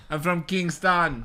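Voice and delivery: put-on slow, weak Jamaican accent; mock Jamaican accent. Friend admits his Jamaican accent is not great. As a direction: draw out Kingston in a bad Jamaican lilt. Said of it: "That's my Jamaican accent".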